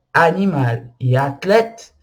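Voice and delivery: "animal e athlète" slowly, A wide open; open French A. Shown as a demonstration. Teacher recapping open A examples, slow pronunciation demo. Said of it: "é um A aberto".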